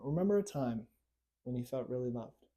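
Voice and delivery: soft guided prompt to recall being loved; gentle guiding invitation. Shown as a demonstration. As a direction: invite them gently into the memory. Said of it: "I want you to do that for a moment".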